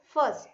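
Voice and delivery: 'first' with the R dropped. Shown as a demonstration. Teacher mimics her pupils' mistake, 'first' without its R. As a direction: say 'first' as 'fust', with no R. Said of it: "Many of you spell or pronounce it".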